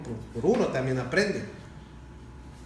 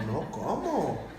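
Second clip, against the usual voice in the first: slow, chuckling disbelief; laughing disbelief; 3 semitones lower, much slower than usual. Retold or imitated. Pastor retelling his reply to a feuding pastor, laughing disbelief. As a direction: laugh the words out slowly in mock disbelief.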